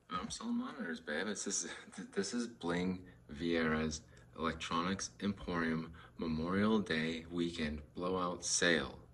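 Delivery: hammed-up sales ad voice; mock ad read. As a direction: announce it like a cheesy ad. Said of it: "mock ad announcement".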